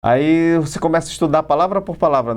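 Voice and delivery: ordinary delivery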